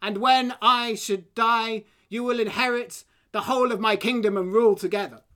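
bellowing king. Acted. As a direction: boom it to the army. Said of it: "The king bellowed".

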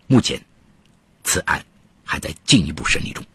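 measured storytelling voice; true crime narrator. A narrator's reading. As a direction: tell the case like a radio crime story.

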